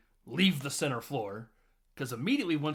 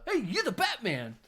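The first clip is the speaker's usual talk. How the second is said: mock excited; 10 semitones higher than usual. Partygoer recognizes Batman.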